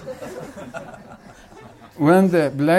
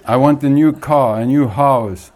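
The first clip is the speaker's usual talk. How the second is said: brash, loud, cocky shout at God; bold, loud demand to God; 7 dB louder than usual. Retold or imitated. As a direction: yell it up to heaven, full of swagger. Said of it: "and shouts".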